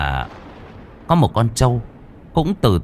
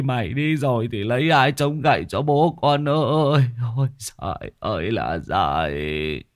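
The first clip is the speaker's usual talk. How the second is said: a father crying over his son's coffin; grieving father keening for his son; lamenting father; 2 semitones higher than usual. Acted. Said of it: "mà khóc".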